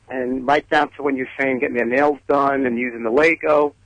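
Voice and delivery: heavy Brooklyn accent. Real, not acted. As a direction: talk in a thick Brooklyn accent. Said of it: "excuse my, um, heavy Brooklyn, uh, accent".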